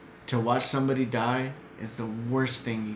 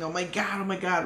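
higher-pitched, hushed frantic cry; retold panic; 6 semitones higher, 4 dB quieter than usual. Son retelling his father busting out of the ICU, panicked. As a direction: imitate a father falling apart, higher and softer.

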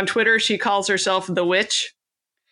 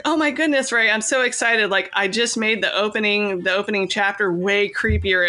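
proud, excited retelling. Retold or imitated. Wife rushing to husband with her new chapter, proud and excited. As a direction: re-enact bubbling over with pride, pitched up at first. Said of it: "I was so proud of myself".

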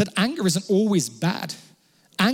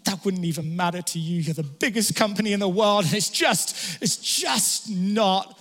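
defeated. Retold or imitated. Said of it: "this final, like, defeated moment".

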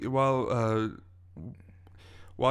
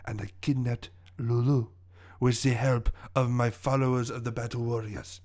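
lightly voiced smug villain with a French accent; theatrical accented villain. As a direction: explain your scheme as a French-accented villain.

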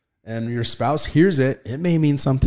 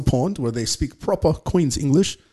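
English accent; 2 semitones higher than usual. Shown as a demonstration. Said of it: "sorry if that wasn't a great English accent".

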